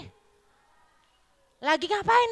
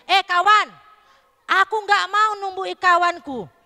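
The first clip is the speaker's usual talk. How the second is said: firm, clear refusal to a friend; brave refusal; 3 semitones higher than usual. Shown as a demonstration. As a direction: stand up to a pal boldly. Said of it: "Kamu harus berani gini".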